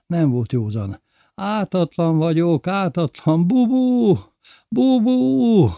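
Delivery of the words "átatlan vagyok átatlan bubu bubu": put-on high, loud, slow drunken cry for help; desperate cry. A narrator's reading. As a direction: call out to Bubu in the dark. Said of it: "Ennyit tudott kiáltani a sötétben". (kétségbeesett kiáltás)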